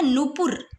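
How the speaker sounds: नुपुर with a long oo in the first syllable; नुपुर said as noo-pur; long first vowel. Shown as a demonstration. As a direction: stretch the first vowel of नुपुर, keep the second short. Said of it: "बड़े ऊ की मात्रा बोलने में नू".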